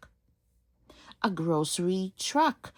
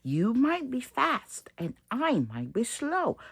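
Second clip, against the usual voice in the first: scolding little truck; 6 semitones higher than usual. Acted. Little Blue scolding traffic.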